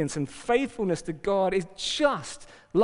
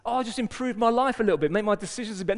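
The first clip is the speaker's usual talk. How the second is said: dismissive mock; 4 semitones higher, 3 dB louder, much faster than usual. Mocking a half-hearted convert.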